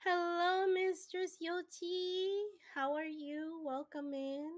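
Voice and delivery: high, drawn-out welcome to a newcomer; high-pitched streamer's singsong hello; singsong greeting. Real, not acted. Streamer greets an arriving viewer in chat.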